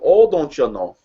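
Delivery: rounded long northern O's; playful northern Midwest accent. Acted. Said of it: "with that northern accent".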